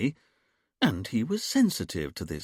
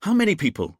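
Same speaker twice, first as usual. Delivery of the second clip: louder, higher barked question; 9 semitones higher, 7 dB louder than usual. A narrator's reading. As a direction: bark it out to grab attention. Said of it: "Richard barked like a seal".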